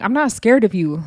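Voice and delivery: mild put-on tough declaration; mock defiance. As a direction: act out needlessly announcing you're unafraid. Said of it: "look to her and be like".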